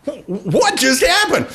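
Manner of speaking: a dazed, baffled ask; bewildered. Retold or imitated. Boss and comptroller after she storms out, mildly stunned.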